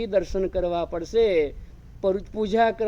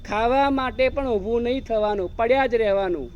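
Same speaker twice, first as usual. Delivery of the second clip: higher, louder mocking build-up; 4 semitones higher, 4 dB louder than usual. Preacher mocks the idle man.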